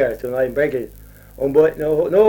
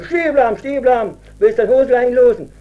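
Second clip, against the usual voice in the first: high, loud mock shout of stop; 9 semitones higher, 4 dB louder than usual. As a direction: hunters yell at the fleeing poacher, shouting high. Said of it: "den haben die schon geschrien".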